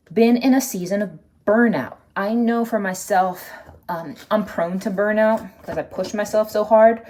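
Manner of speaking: emphatic and loud. Real, not acted. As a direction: press it home earnestly. Emphatic talk about burnout.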